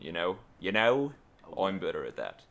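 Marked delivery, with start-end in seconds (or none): 0.6-1.1 put-on Cockney with a lifted ending; louder mock Cockney; Cockney accent. Shown as a demonstration. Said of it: "I'm better at Cockney accent". 1.6-2.4 mock Cockney, pitched lower; put-on Cockney vowels; Cockney accent. Shown as a demonstration. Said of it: "I'm better at Cockney accent".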